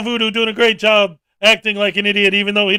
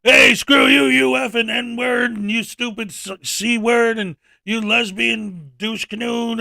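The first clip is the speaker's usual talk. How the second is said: a hint of a shouted insult tirade; mock vulgar ranter; 4 semitones higher, slower than usual. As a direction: rattle off crude insults, half-shouting. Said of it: "instead of being like".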